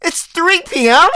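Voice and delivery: high, startled mock panic; shocked waking-up voice; panicked realization. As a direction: squeal like you just overslept badly. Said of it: "you wake up and like".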